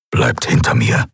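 low, growled warning; deep growling order. A narrator's reading. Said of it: "knurrte Keruk".

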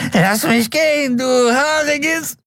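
very high, strained squeal; dealer, panicked. A narrator's reading. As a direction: squeal while dangling by the neck. Dealer voiced in story.

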